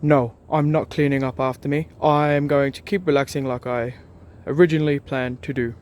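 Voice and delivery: loud, stubborn skit reply; acted refusal. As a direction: refuse firmly, projecting like a stage player. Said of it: "refuses to clean up".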